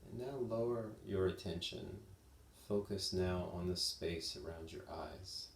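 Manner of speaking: calm, unhurried body-scan guidance with long pauses; measured meditation teacher voice, lingering pauses; guided meditation. Real, not acted. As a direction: guide them gently, leaving space between phrases.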